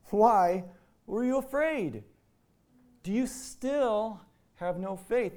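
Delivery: high, loud, slowing stern challenge; stern rebuke. Acted. Jesus rebuking his frightened disciples, stern and loud. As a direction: rebuke them, not soft or cuddly. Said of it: "I don't think it was all that soft or cuddly".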